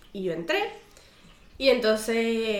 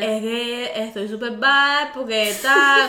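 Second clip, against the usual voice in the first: put-on slow, whiny little-kid voice, lightly done; whiny Chuckie voice; much slower than usual. Patient complaining to the doctor in a mild, slow, whiny Chuckie voice. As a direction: sulk it out slowly like a scared cartoon toddler. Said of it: "hablando como Carlitos de los Rugrats".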